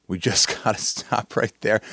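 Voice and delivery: breaking into a laugh mid-line. Real, not acted. Host cracking up at the mascot bio, laughing. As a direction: laugh through the repeat.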